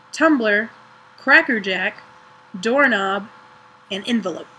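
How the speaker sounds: each word read slowly in her own northern US accent; accent challenge words. Shown as a demonstration. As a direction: say every word clearly as a pronunciation demo. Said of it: "pronounce the following words".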